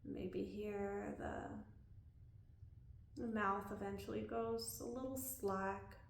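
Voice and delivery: calm body-scan guidance with long pauses; unhurried, leaving room to breathe between phrases; guided meditation. Real, not acted. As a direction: guide them gently through a body scan.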